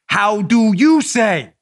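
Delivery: slow mock-Spanish "How do you say?"; mock Spanish accent. Mocking Spanish speakers in a slow put-on accent. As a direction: drawl it like a learner groping for English.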